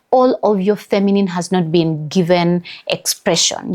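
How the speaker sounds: ordinary talk, nothing marked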